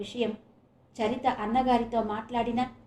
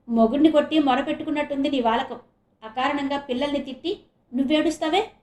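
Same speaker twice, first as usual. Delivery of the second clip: fast, louder reproach; stern rebuke; 3 semitones higher, 3 dB louder than usual. Acted. Husband rebukes his crying wife, stern. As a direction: scold her firmly. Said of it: "అన్నాడు సీరియస్గా".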